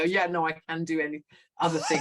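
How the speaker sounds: laughing through a jokey quote. Retold or imitated. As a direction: chuckle while quoting yourself. Jokey quote about Calcutta settings.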